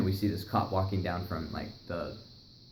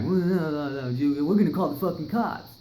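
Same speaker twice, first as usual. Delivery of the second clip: high, loud threat to call cops; second gunman threatening police, voiced high; threatening neighbor; 7 semitones higher, 4 dB louder than usual. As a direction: warn them off sharply. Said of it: "he's like".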